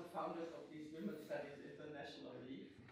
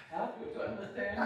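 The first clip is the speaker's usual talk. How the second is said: laughing; 4 semitones higher, 5 dB louder than usual. Real, not acted. Jokes about her German accent.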